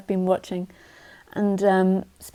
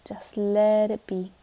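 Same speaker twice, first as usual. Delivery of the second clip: slow hushed whisper; slower than usual. Real, not acted. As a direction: breathe it out, barely voiced. Gentle guidance to let go.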